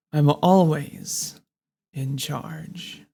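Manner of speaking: slow, dominant and in control; commanding. Shown as a demonstration. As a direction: assert total control. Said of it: "you're in charge right now".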